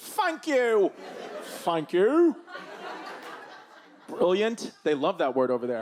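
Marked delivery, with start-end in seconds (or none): 0.0-2.4 put-on British accent, pitched up and very slow. Imitating how British people say thanks: imitating a British accent. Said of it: "They change the T H to an F, and then you're British".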